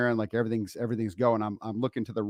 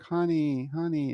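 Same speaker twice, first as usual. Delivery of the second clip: higher, drawn-out sympathetic call; sad; 4 semitones higher, slower than usual. Retold or imitated. Wife sees his broken mirror, sad and pitying. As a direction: imitate a sorry, pitying wife. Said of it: "she just kinda looks really sad".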